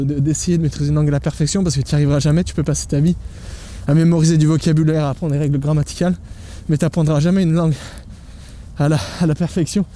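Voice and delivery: muffled by a face mask; talking through a mask while walking. Real, not acted. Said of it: "ça monte un peu avec le masque là".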